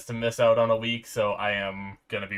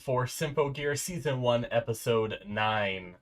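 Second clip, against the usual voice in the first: sick, stuffy-nosed voice; talking through a blocked nose; congested voice. Real, not acted. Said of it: "if you can't already tell by my voice".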